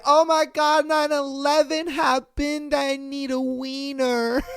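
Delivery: high, breathless mock panic over the news; mock hysterical woman. Streamer mocking a cheater's frantic excuse, high mock panic. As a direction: play a frantic woman blurting it out. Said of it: "so she was like".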